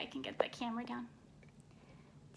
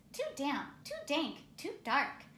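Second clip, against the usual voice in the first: squeaky mouse; 3 semitones higher than usual. Acted. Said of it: "Mouse squeaks".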